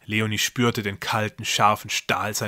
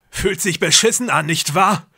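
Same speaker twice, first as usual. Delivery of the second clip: higher, louder hoarse taunt; hoarse groan; 8 semitones higher, 7 dB louder than usual. A narrator's reading. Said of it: "stöhnte er mit heiserer Stimme".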